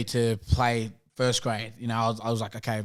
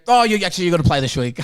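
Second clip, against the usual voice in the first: excited coach quote; 5 semitones higher, 7 dB louder, faster than usual. Retold or imitated. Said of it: "he goes".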